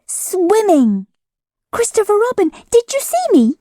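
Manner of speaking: very high, eager little voice; excited squeak. A narrator's reading. Roo excitedly asking everyone, squeaky. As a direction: bounce with pride. Roo's voice.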